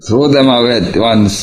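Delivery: retold scolding order, pitch lifting; mock-annoyed command to get rid of it; imitated annoyance. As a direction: act out an exasperated warning. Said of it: "annoyed. He says".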